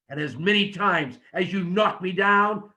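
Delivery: trash talk him, shout then hush; wrestling promo demo. Shown as a demonstration. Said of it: "so that when you tell me".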